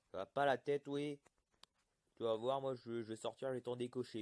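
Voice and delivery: mock scolding. Scolding mobs near his house.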